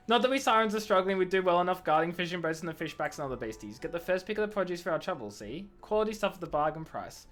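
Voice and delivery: lightly gruff sea-trader character; a hint of gruff siren, explaining the trade. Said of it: "if I just go really gruff".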